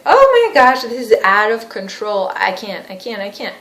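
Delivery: mock-panicked outburst dwindling into retreat; acted overwhelm.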